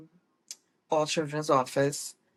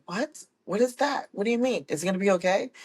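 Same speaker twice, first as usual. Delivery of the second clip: high, alarmed questions tumbling out; a worried new mom, panicking at the nurse's news; panicked; 6 semitones higher, faster than usual. Retold or imitated. Worried first-time mom asks the nurse, high and panicked. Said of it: "And I was like".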